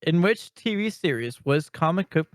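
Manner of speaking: numb tongue from ice; slightly thick numb speech. Real, not acted. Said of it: "my tongue is, like, numb".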